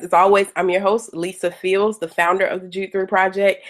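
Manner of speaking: raspy voice from a cold; hoarse from a cold. Real, not acted. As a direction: talk through a hoarse cold throat. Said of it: "excuse my voice, I'm just getting over a, uh, a severe cold".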